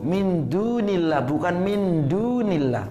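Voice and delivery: "min dunillah" slow, clear tip-of-tongue d; Arabic min dunillah. Shown as a demonstration. Teacher demonstrates Arabic pronunciation, slowly. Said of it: "orang Arab kan bilangnya".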